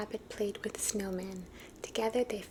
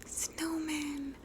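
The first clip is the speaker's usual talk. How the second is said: called; 6 semitones higher than usual. A narrator's reading. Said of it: "called Little Rabbit".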